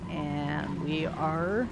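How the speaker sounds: talking through a yawn; words stretched by a yawn; yawning sigh. Real, not acted. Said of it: "Sorry, I'm yawning".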